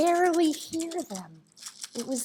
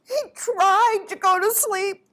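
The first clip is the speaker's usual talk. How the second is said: higher-pitched, straining narration; mounting frustration; 6 semitones higher, 4 dB louder than usual. A narrator's reading. Storyteller tells of owl's failing attempts, strained and higher. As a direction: lift the pitch as the effort fails.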